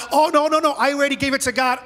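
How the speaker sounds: mock protest, wave the question away quickly; defensive protest. Preacher mimics believer dodging the issue, defensive and quick.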